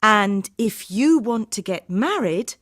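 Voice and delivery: high-pitched pointed follow-up; angry. Acted. Harminder to the bride-to-be about sharing, angry. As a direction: turn crossly on the second rival. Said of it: "Harminder was speaking angrily".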